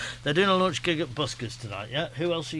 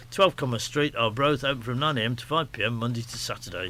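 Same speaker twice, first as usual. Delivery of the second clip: brisk, slightly raised announcer read of an advert; radio ad read. Acted. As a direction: sell the fireside shop like a local radio spot. Host resumes reading the ad.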